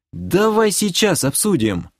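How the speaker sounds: высокий просительный тон; упрашивай, голос заметно вверх; мольба. A narrator's reading. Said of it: "взмолился я". (умоляюще, повышенным голосом)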